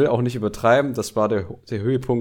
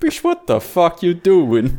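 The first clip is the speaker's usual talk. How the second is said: mock outraged yell; 6 semitones higher, 5 dB louder, slower than usual. Acted bandmate yelling at an artist.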